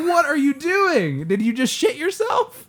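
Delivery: high-pitched, slow disbelief through laughter; hammed-up incredulous reaction. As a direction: squeal it, half laughing, appalled. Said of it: "and I was like".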